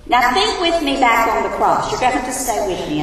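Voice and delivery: preaching in a room full of echo; big hall echo. Real, not acted. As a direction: voice echoing around a large hall. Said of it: "I'm sorry I'm echoing".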